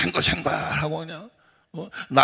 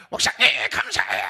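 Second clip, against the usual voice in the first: put-on hollered thanks; retold ear-splitting cry; 7 semitones lower than usual. Delighted member thanking the pastor, mock holler. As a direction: mimic a booming, gushing thank-you. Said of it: "귀청 떨어지는 줄 알았네".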